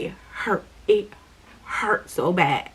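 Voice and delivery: slow, hushed, pained words; real hurt. Real, not acted. Recalling the pain of church hurt.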